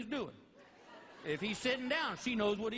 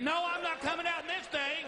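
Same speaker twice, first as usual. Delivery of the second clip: imitating wife; 6 semitones higher than usual. Wife refusing from dressing room.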